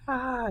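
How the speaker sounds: high, held-back scream; soft, high "ah" of a fan screaming; mock scream. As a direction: imitate screaming without the volume. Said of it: "screaming and shit".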